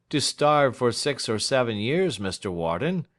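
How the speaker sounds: Snitchey coolly echoing the client; lightly voiced lawyer Snitchey. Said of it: "said Snitchey".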